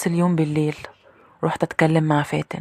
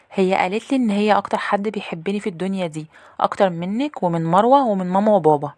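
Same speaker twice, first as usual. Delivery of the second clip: put-on higher girlish voice; little sister; 4 semitones higher than usual. Little sister repeats what the maid told her, higher little-girl voice. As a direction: share the secret like a small girl. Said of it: "أختي الصغيرة ... ردت عليا وقالت لي".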